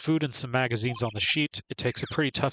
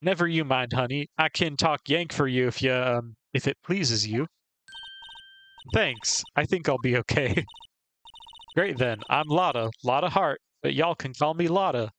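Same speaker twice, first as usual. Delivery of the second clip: Southern woman scolding. Acted. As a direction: chew them out like a country gal. Southern photographer introduces herself.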